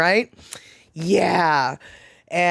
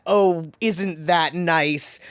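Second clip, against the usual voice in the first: put-on Southern lady accent; much slower than usual. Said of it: "direct hit with that accent".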